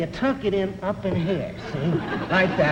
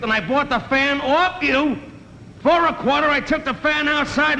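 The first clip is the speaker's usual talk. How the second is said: tough guy getting heated; 5 semitones higher than usual. Retold or imitated. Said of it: "The guy says".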